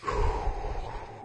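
long unvoiced breath out to relax; slow calming exhale. Shown as a demonstration. Host shows listeners how he calms his nerves, long slow sigh. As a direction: let it all out in a slow sigh. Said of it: "That's why I do that".

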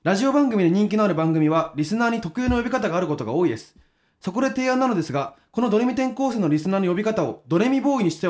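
reading a fan letter aloud on air; steady radio letter read; listener letter read. Acted.

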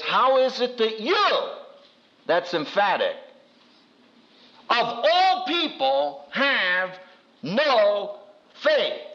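slow, high rebuke stressing you; lightly voiced reproach to the disciples; emphatic rebuke. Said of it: "turns to the disciples and says".

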